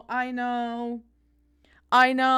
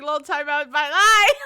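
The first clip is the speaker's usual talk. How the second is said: mocking message; 2 semitones higher, 6 dB louder than usual. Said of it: "it was like".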